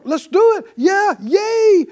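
high, loud mock cheer. Preacher voices Joshua and Caleb cheering, high and loud. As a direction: whoop it up like eager kids at a party. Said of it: "they're like".

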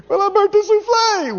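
high whiny excuse. Retold or imitated. Cook excusing herself after ruining the souffle, high whine. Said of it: "mock excuse voice".

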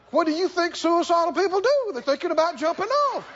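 badgering. Devil argues back, acted quarrel.

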